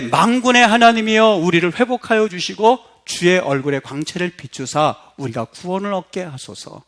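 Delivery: prayerful psalm reading. Real, not acted.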